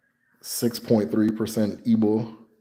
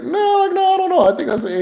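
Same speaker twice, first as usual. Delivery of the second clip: high, louder flustered protest; imitating the cornered patient; 6 dB louder than usual. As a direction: stammer it out up high.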